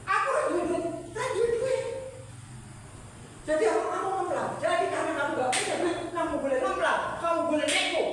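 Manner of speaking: high, loud mocking voice; high, loud mock debtor's voice. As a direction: parody the excuse up high.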